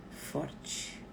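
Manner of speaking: "forte" dropped to a soft, low whisper; whispered tag word. Shown as a demonstration. Teaching viewers what to say, ending in a whisper. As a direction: let "forte" fall away into a whisper. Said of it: "diga pra ela".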